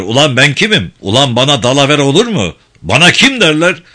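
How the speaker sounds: loud, riled-up challenge, rising on the last line; angry boasting. Acted. Director demanding respect from the guard, angry loud challenge. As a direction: bellow who you are at him.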